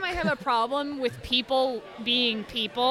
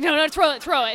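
pushy dog voice; 4 semitones higher, 5 dB louder than usual. Retold or imitated. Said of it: "She's like".

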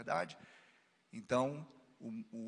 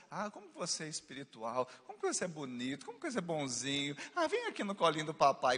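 coaxing sweetly; faster than usual. Retold or imitated. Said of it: "primeiro você fala assim".

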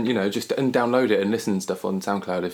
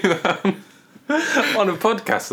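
high laughing protest; 10 semitones higher, 3 dB louder, slower than usual. Real, not acted. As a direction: laugh through the words. Laughing at the choking noise.

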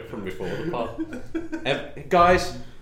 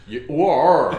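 loud, hammed-up Cornwall accent; 3 semitones higher, 8 dB louder than usual. Friends competing for the best Cornwall accent, loud mock Cornish. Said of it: "Cornwall accent".

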